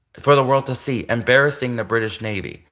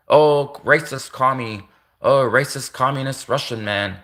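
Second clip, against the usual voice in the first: mocking Americans. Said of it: "That's what America would be doing".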